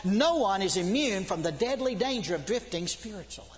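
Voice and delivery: urgent, emphatic sermon delivery; fervent preaching. Real, not acted. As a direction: preach it with driving conviction. Preaching with force.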